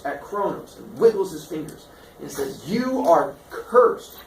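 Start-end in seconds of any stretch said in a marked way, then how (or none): 2.7-4.2 pronouncing a curse. Acted.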